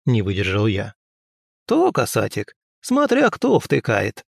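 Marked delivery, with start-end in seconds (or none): 1.7-4.3 higher, slow sly crone; sly old woman. Acted. Old healer teases the young prince, sly. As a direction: drop it slyly like a cunning witch. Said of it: "хитро улыбнулась старуха".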